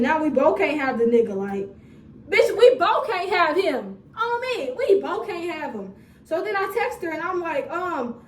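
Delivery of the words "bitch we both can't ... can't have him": emphatic telling off. Retold or imitated. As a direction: lay it down to the other woman slow. Telling off the other woman.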